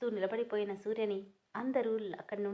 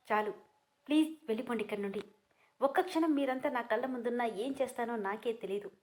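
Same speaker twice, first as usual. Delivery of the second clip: shouting; 2 semitones higher than usual. Acted. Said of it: "అని గట్టిగా అరుస్తూ".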